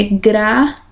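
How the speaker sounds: "gratuito" as gra, tui, to with pauses; sílaba por sílaba. Shown as a demonstration. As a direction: keep "tui" as one syllable in a split-up "gratuito". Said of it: "É junto aqui". ("gratuito" pausado, com tui numa sílaba só)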